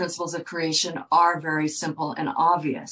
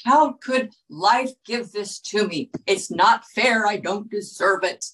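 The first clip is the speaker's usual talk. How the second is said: mock aghast; 3 semitones higher than usual. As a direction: play the stunned patient crying unfairness. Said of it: "You're aghast".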